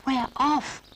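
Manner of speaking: very high, loud delighted cry; Noddy delighted the train is moving. Acted. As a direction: squeal with joy as the train leaves. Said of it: "said Noddy in delight".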